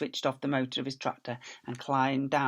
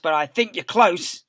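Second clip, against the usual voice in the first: shouting; 4 semitones higher, 7 dB louder than usual. Acted. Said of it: "shouted Boggis".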